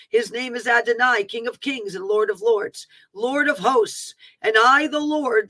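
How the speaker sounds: emphatic declaiming, each phrase launched firmly; prophetic proclamation. Acted. Preacher voicing the Lord's warning to the nation, declaiming. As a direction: proclaim it as a solemn divine decree.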